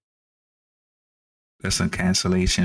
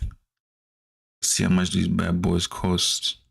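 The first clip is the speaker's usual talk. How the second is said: slow drawn-out. Shown as a demonstration. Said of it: "repeated, drawn out".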